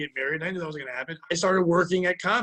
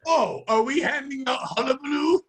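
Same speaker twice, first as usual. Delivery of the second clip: higher, slower, theatrical gentleman; hammed-up old-timey voice; 6 semitones higher than usual. Pat answers Dave as a pompous Victorian gentleman. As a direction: ham up a pompous Victorian retort.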